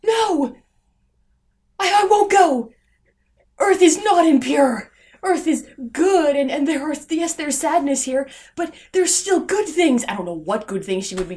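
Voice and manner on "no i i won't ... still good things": mock heroine's plea. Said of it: "She's like".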